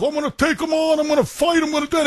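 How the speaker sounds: mock bar loudmouth.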